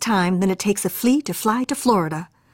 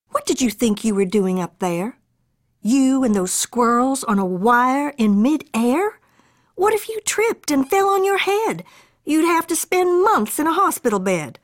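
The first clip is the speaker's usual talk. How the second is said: scolding mother; 5 semitones higher than usual. Acted. Mother scolds her son.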